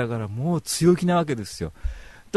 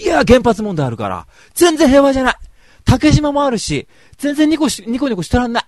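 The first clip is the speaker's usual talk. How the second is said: mock rant; 11 semitones higher, 10 dB louder than usual. Ranting back at cheerful TV.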